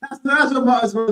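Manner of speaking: talking through real laughter; laughing. Real, not acted. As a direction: let the laugh break into the words. Amused by her audible excitement.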